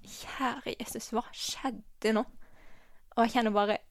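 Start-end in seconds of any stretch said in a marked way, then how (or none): 0.1-2.2 whispered prayer. Retold or imitated. Praying in grief at funeral.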